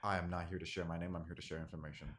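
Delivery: hooded stranger voice. Acted. Voices hooded tabaxi figure.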